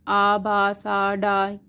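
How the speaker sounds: आ, बा, सा, डा as separate sounds; letter sounds. Shown as a demonstration. Teacher listing English letter sounds, आ, बा, सा, डा spaced evenly. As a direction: sound out आ, बा, सा, डा one by one. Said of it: "ये जो सारे साउंड्स हैं".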